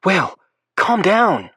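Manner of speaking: high, loud, drawn-out mock yell. A narrator's reading. Lake fake-yelling through the door at Will, mock yell. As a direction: call it out for the boys to hear. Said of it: "she yells".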